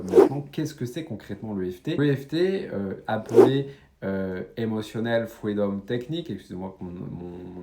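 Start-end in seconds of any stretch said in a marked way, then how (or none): 4.6-6.3 English term in a French accent. Real, not acted. Coach apologizing for his English pronunciation, French-accented English. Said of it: "mon accent anglais".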